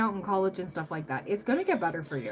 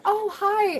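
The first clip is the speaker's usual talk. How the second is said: bright, much higher startled greeting; surprised hi; 11 semitones higher, 3 dB louder than usual. Retold or imitated. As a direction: greet her as if caught off guard. Greeting the old bully in bar.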